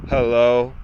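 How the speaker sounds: imitating a curt phone hello, drawn out low; mean attitude. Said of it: "She would always sound like she had an attitude".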